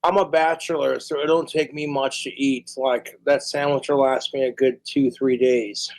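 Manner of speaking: ordinary delivery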